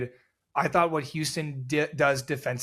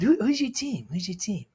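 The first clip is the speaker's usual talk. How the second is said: villain coach voice; 6 semitones higher than usual. Retold or imitated. Coach voiced in airport story.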